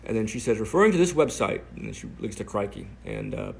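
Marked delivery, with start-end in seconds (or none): 0.6-1.6 mock British accent. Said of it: "I'm doing her British accent".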